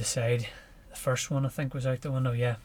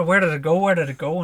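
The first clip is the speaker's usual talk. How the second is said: anxious searching; 3 semitones higher, 7 dB louder than usual. Retold or imitated. Looking back for the dog.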